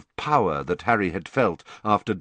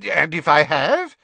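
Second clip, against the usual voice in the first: raised, defiant challenge; 6 semitones higher, 6 dB louder than usual. A narrator's reading. Fudge defiantly challenging Dumbledore, raised voice. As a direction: dare him to object. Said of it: "a defiant and obstinate look".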